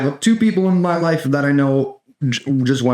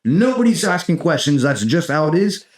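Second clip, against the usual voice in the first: mock president; 5 semitones higher than usual. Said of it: "if a president was like".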